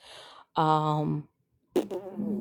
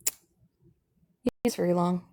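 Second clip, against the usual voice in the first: slow aside; 4 dB quieter, slower than usual. Real, not acted. Slow low aside repeated.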